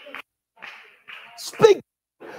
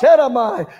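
speaking in tongues; 3 semitones lower, 4 dB louder than usual. Real, not acted. Praying in tongues.

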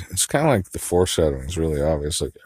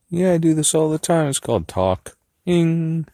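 high silly voice; 11 semitones higher than usual. Pretend. Rehearsing a line in a high silly voice. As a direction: play with a squeaky voice.

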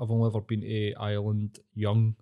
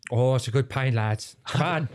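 put-on Irish accent. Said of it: "talking in an Irish accent".

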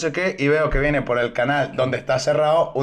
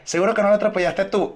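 mock police; 6 semitones higher than usual. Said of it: "La policía".

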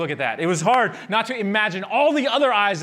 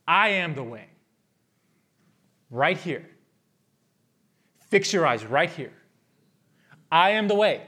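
Jesus speaking; 3 semitones lower than usual. Retold or imitated. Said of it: "can you hear him saying".

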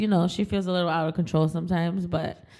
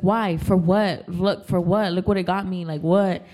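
mock pissed friend; 3 semitones lower, 5 dB louder than usual. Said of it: "She's like".

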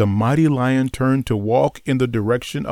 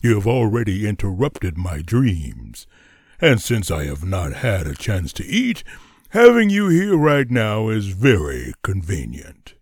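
a sleepy lion grumbling; deep lion voice; 5 semitones lower than usual. Acted. Lion speaks, low voice.

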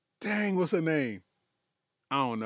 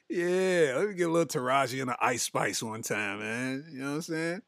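usual speaking voice

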